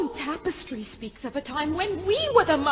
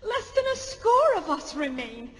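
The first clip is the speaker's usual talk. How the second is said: anger; 3 semitones higher, 6 dB louder than usual. Acted. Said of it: "Tell me how to express my anger".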